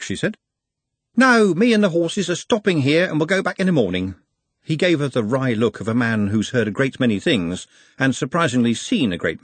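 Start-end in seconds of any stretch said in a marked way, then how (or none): 1.1-4.2 higher, easygoing working man; a worldly driver amused; lightly voiced jovial driver; chatty bus driver. A narrator's reading. Driver answers Glenda.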